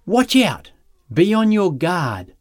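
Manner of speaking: high-pitched urgent call; urgent warning. Acted. Jesus seriously warning the crowd against greed, urgent call. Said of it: "He's giving a serious warning here".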